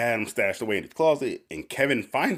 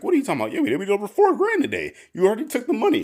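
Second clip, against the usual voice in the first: exasperated employee; 11 semitones higher, 4 dB louder, faster than usual. Retold or imitated. Employee arguing with boss.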